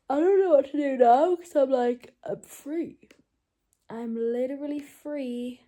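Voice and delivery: loud, giddy disbelief; excited. Real, not acted. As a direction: blurt it out, overjoyed. Joy of being free.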